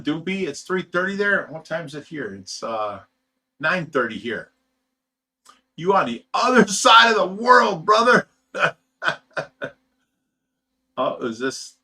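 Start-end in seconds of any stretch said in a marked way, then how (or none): 5.8-8.8 laughing. Real, not acted. Laughing at time difference.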